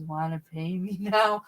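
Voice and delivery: slow, sedated, a little eerie; creepy magician voice. Retold or imitated. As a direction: drag the words like a drugged performer. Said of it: "his voice was so frightening".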